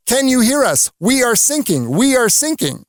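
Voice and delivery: urgent mayday voice from a sinking boat; distress call. Retold or imitated. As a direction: call out like sailors on a sinking ship. Sinking ship calling on the radio.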